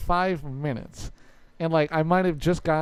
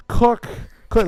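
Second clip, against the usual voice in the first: yelling; 5 semitones higher, 9 dB louder than usual. Retold or imitated. Grandpa yelling for grandma.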